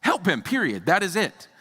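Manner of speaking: Jesus fed up with arguing disciples, exasperated. Retold or imitated. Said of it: "Jesus is like".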